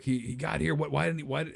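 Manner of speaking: halting, lightly distraught questions; acted tearful bewilderment. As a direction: play at being near tears. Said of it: "they're sad and they're crying".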